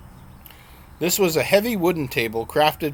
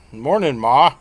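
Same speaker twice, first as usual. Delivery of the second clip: mock country twang; 5 semitones higher, 6 dB louder than usual. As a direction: play the grown son putting on a joking rural Southern accent. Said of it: "he asked in a mock country twang".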